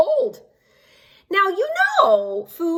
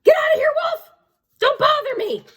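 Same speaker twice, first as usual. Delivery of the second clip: rude pig; 13 semitones higher than usual. Acted. Third pig shouts rudely at the wolf. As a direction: yell like a rude little pig. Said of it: "what that rude little porker answered".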